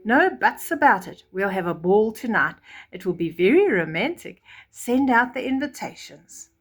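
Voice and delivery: a hint of a bossy king; lightly voiced king. King orders ball.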